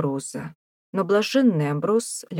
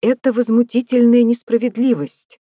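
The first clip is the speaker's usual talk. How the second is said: higher, louder cry of outrage; outraged yell; 7 semitones higher, 8 dB louder than usual. A narrator's reading. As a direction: bellow the injustice at the warder. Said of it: "завопил Трестрам".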